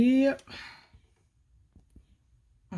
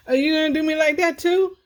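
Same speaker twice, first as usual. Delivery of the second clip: laughing; 6 semitones higher, 7 dB louder, faster than usual. Real, not acted. Cat walks off, laughing.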